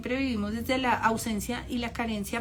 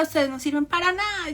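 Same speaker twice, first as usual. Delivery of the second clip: higher-pitched mock scolding; imitated verbal abuse; 4 semitones higher than usual. Comedian insulting her family before the photo, mock scolding. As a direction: berate them, imitating an abusive woman. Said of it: "empezó a ser maltratadora".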